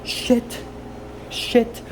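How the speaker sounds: high shrieked shit; screaming curses. Real, not acted. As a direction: shriek it in frustration. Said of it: "I've screamed so much".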